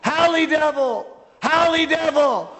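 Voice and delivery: high, slow, chanted holler; imitated yelling. Lady denouncing preacher in the street, imitated high yell. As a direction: cry it out like a mock accusation. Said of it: "she starts yelling with her hands raised".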